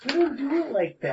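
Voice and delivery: high, quick words through laughter; laughing mock scolding. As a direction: crack up while telling someone off. Joking imagined quote amid laughter.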